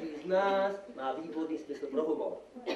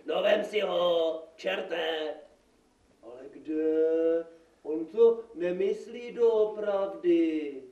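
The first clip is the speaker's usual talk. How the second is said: acted dialogue; 5 dB louder, slower than usual. Magistrate and devil argue over curse.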